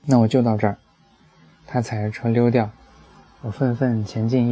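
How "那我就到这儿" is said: exasperated. Retold or imitated. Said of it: "我气急败坏地跳下车".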